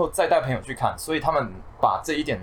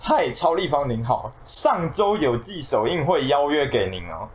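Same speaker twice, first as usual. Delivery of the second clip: 逐字慢慢念信; reading aloud haltingly. Shown as a demonstration. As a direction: read it out word by word, slowly. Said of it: "一个字一个字念出来". (一字一句慢慢读出来)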